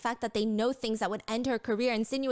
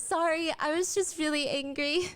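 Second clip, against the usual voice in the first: mild cute apology; 5 semitones higher than usual. Retold or imitated. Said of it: "smiling and wipes a tear".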